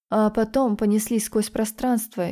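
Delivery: plain reading voice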